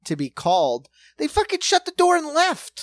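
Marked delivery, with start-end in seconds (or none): 1.2-2.8 sudden high indignant outburst; pitched-up exasperated rant. Real, not acted. Telling a friend about a missed flight, high exasperated outburst. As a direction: throw the words up high in disbelief.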